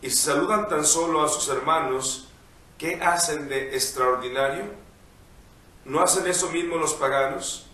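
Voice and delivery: measured liturgical reading voice; gospel reading. Acted. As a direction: read the Gospel aloud, unhurried. Priest reads the Gospel.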